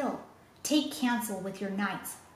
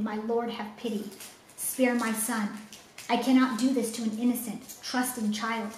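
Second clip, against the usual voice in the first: mild desperate plea, a touch faster; begging the lord for his son's life; pleading. Acted. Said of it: "he pleaded".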